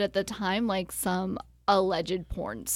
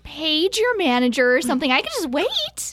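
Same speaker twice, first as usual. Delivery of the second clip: lightly put-on chatty saleswoman; sweetly insistent caller, lively swooping pitch; pushy caller Trish; 5 semitones higher than usual. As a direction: talk like a caller who won't hang up. Improv caller Trish character.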